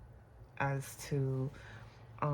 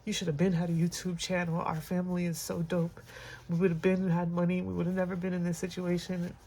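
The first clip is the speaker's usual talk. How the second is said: a son's heartfelt insistence, a touch raised; quoting her late son; 3 semitones higher than usual. Retold or imitated. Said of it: "He was like".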